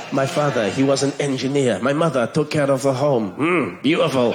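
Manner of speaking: a hint of Spanish accent, savouring each word as if romantic; mock-romantic Spanish accent, gently done. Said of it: "But in a Spanish accent".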